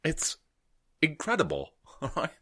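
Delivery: high, hammed-up Liverpool auditioner; audition contestant. Contestant gushing to Simon and the other judges, mock starstruck voice. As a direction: pitch it up like an overawed contestant. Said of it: "doing the audition for X Factor".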